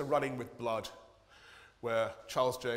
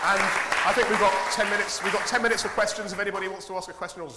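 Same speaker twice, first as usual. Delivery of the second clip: loud, raised host voice; calling out to audience; 8 semitones higher, 12 dB louder than usual. Real, not acted. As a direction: announce to the hall. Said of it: "addressing room loudly".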